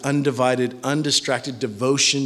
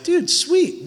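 excited; 12 semitones higher than usual. Retold or imitated. Excited young husband recalled.

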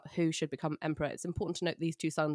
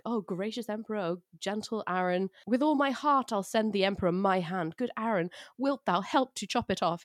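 mock excited; 3 semitones higher than usual. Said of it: "He's really excited".

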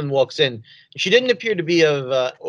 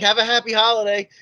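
bright, higher customer-service chirp; cheery retail voice; 6 semitones higher than usual. Retold or imitated. Clerk reflexively chirping holiday wishes to a grieving customer, cheery and higher. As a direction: wish her well like a shop clerk on autopilot. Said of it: "cheery retail customer voice".

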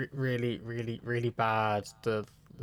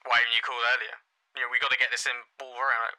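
snappy receptionist; faster than usual. Retold or imitated. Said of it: "more and more aggressive".

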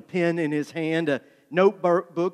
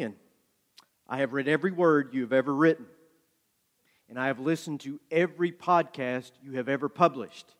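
earnest thanks; 2 semitones lower, 4 dB quieter than usual. Retold or imitated. Composed fan addressing his idol.

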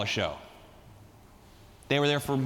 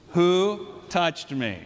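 slow puzzled Jesus; 4 semitones higher, 4 dB louder, much slower than usual. Acted. Preacher voicing Jesus, slow.

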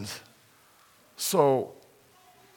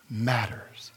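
whispered; 2 semitones lower, 6 dB quieter than usual. Acted. Hushed climax of sermon point.

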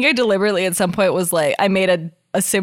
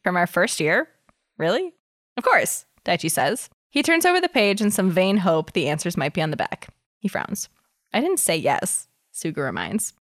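story narration. Acted. Reads fanfic aloud.

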